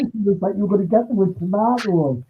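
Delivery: muffled, like through a wall. Real, not acted. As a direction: voice muffled by the headset. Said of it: "you sound like you're muffled".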